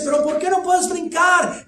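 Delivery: high, loud demanding shout; father shouting. Retold or imitated. Father shouts up asking why his son won't jump. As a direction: yell the question up in desperation. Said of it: "Le dice".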